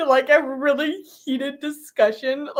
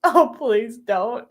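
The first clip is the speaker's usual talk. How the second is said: slow, laughing please don't; 3 dB louder, slower than usual. Retold or imitated. She begs coworkers not to buy books, laughing. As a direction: beg through laughter. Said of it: "I'm like".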